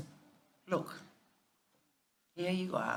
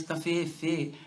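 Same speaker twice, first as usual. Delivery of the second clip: sister's mala lingo; slower than usual. Retold or imitated. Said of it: "in her mala lingo".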